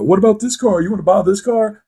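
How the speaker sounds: mock yelling. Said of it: "They were yelling at him".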